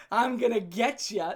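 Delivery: slow, laughing singsong tease; laughing taunt. Retold or imitated. Teasing his girlfriend in the chase, laughing. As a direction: drag it out through a laugh.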